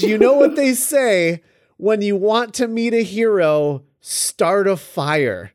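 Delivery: lightly acted villain, slowing to the punchline; Green Goblin. Reading the Goblin's taunt to Spider-Man, lightly acted villain. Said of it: "Green Goblin says".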